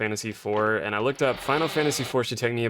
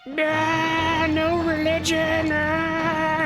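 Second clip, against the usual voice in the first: squeaky high voice; much slower than usual. Pretend. Silly high voice.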